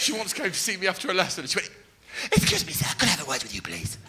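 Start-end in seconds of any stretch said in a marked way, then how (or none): 2.3-2.8 high, prim housewife voice; a polite forties falsetto; Karen Powell. Acted. Pupil approaching her teacher after lesson, prim housewife voice. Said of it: "This is how she spoke". 3.0-4.0 prim housewife voice, falling away softer; politely put, fading at the end; Karen Powell. Acted. Pupil asking her teacher for a word, prim. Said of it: "This is how she spoke".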